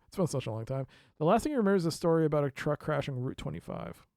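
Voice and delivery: ordinary delivery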